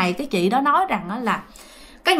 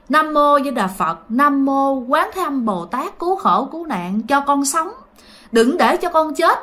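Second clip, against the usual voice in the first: higher, pleading prayer for her life; mother praying not to die for her child, pleading higher; desperate prayer; 3 semitones higher than usual. Retold or imitated. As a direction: beg the Buddha to let her live, voice raised. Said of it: "mẹ vái, mẹ nói hả là".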